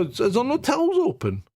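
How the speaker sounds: mock-loud complaint at the tills; fairly loud voice. Dad to shop staff: a fairly loud, pushy complaint. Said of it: "in a fairly loud voice".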